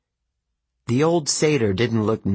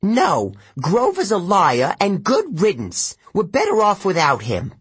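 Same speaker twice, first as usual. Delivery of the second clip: put-on shaken old satyr; 9 semitones higher than usual. A narrator's reading. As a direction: insist while nearly breaking. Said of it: "lips quivered".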